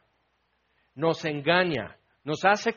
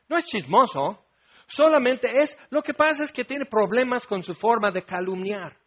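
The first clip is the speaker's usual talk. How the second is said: sarcastic excuse; 4 semitones higher than usual. Retold or imitated. Preacher mocking excuses for gossip, sarcastic tone. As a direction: roll eyes at the excuse.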